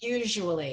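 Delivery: "Usually" with a buzzing zh sound in the middle; modelled pronunciation. Shown as a demonstration. Teacher models a word for a learner, clear pronunciation. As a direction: say "Usually" clearly, voiced "zh" after the U. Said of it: "It has, like, a Z".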